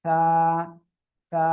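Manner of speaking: তা as "thaa", tongue tip at the teeth tips, air released lightly; soft airy "th". Shown as a demonstration. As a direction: model তা with a lisped, breath-led start. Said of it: "বাতাস হালকা বের করতে হবে".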